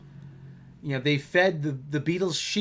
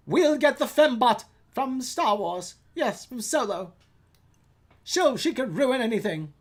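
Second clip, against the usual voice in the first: gleeful scheming; 5 semitones higher, slower than usual. Retold or imitated. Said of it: "a light bulb went off".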